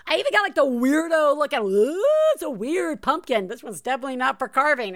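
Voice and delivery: high, bright-eyed gush over a weird pumpkin; wife recalls the weird pumpkin, excited gushing. Retold or imitated. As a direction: gush like a kid at a pumpkin patch. Playful excited pumpkin shopping quote.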